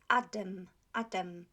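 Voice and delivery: "Adam" with a weak, swallowed second vowel; English pronunciation. Shown as a demonstration. Teacher imitating native English speakers, reduced vowel. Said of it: "native English speakers pronounce this word as".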